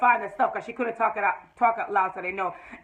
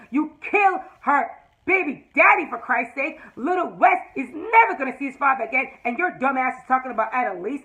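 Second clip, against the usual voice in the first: raised, indignant, getting louder to a shout; sassy rant; 2 semitones higher, 4 dB louder than usual. Real, not acted. Recapping the show, she scolds Laurel's father with rising sass. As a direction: tell the father off with full sass.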